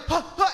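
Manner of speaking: short high mock gasps; hammed-up dying breaths; fake heart-attack gasps. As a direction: act out gasping on the ground. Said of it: "He's on the ground going".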